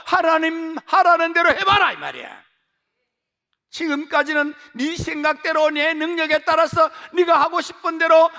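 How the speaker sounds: high, loud, shouting sermon; preaching at full force. Acted. Pastor urging congregation to seek God, loud and high. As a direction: thunder the call to seek God.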